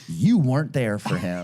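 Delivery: drawn-out mock accusation; imitating a mourner calling out the family; retold accusation. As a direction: accuse them slowly, leaning on the opening. Funeral speaker confronting the family.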